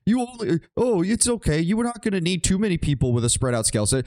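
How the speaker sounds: sarcastic rant. Real, not acted. Sarcastic rant at game design.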